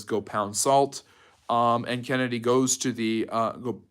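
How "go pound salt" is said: "Go pound salt" said slowly, each word spaced; slow quote. Retold or imitated. Teacher quoting Khrushchev's retort to Kennedy, slow and deliberate. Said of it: "Khrushchev says".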